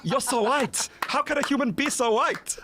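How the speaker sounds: high-pitched, incredulous teasing; mocking amazement. Brazilian ex laughing at his pale body, mock amazement. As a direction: imitate someone marvelling in a high voice. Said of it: "look at my body and laugh and be like".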